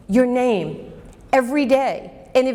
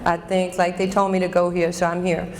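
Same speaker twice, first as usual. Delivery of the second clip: a lightly put-on thick New York accent, lower, laughing through it; 5 semitones lower than usual. Coach mocking her young self's New York accent. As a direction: poke fun at your teenage New York punk self in a low New York accent. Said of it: "I used to talk like this".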